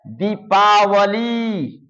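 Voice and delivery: drawn out, each syllable separate; slow read-aloud. Shown as a demonstration. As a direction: sound it out slowly. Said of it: "हमारे साथ साथ इसे बोलेंगे".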